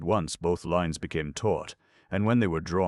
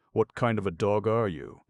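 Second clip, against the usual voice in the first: higher, louder astonishment; astonished gasp; 6 semitones higher, 5 dB louder than usual. A narrator's reading. Clown staring at the little creature, astonished gasp. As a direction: gasp the question in mild amazement. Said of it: "gasped the clown".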